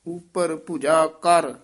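a small break after ਉਪਰ ਭੁਜਾ ਕਰ; short pause after. Shown as a demonstration. Teacher marking a pause in the verse. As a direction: stop briefly after ਕਰ. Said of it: "ਇੱਥੇ ਠਮਕ".

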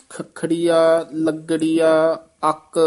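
ਖੱਖੜੀਆ, ਲੱਗੜੀਆ, ਅੱਕ one by one, consonants held tight; tight doubled consonants. Shown as a demonstration. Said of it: "ਇਹ ਪਦ ਕਸ ਕੇ ਹੀ ਉਚਾਰਨ ਕਰਨੇ ਹਨ". (ਖੱਖੜੀਆ, ਲੱਗੜੀਆ, ਅੱਕ ਕੱਸ ਕੇ ਉਚਾਰੋ)

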